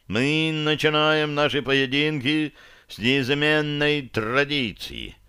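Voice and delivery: slow, high ringing proclamation; solemn booming herald. Acted. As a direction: call it out slowly to the whole hall. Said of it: "торжественно и зычно заговорил он".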